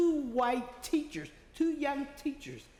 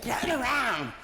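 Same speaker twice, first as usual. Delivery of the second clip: retold holler; 4 semitones higher, 4 dB louder, slower than usual. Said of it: "screaming and hollering".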